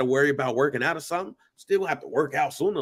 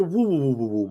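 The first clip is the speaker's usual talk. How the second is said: wobbling noise. Retold or imitated. Warning his friend about ruptures, imitated wobbling noise. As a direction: run of woos dropping in pitch. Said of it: "just wobble".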